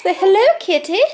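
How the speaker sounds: high, loud sing-song coaxing; coaxing prompt. Real, not acted. Teaching the bird to say hello to kitty, coaxing. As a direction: lift it high and loud for the pet to copy. Coaxing pet to repeat words.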